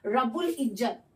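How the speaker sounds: रब्बुल इज्जत with a clear l after ब; pronunciation demo. Shown as a demonstration. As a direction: sound the lām in रब्बुल इज्जत. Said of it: "क्या लिखा है?". (रब्बुल इज्जत में लाम साफ़)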